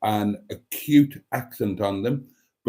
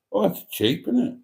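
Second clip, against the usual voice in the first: mock awe; 8 semitones higher than usual. Mock admiration of car price.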